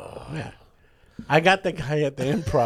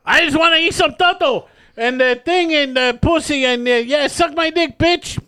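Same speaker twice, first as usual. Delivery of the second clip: dirty puppet voice; 9 semitones higher than usual. Retold or imitated. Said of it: "oh, it's the dirty puppet?".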